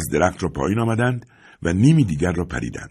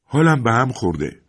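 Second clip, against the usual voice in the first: put-on embarrassed boy; 6 semitones higher, 3 dB louder than usual. A narrator's reading. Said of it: "تیم خجالت زده گفت".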